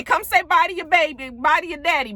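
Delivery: put-on coaxing a child. Acts grandmother calling child over.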